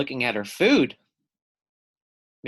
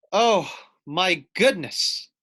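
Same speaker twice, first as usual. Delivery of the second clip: shocked; 4 dB louder than usual. Acted. Dovekie Lovekey shocked by the queen. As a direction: gasp at the danger. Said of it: "said Dovekie Lovekey".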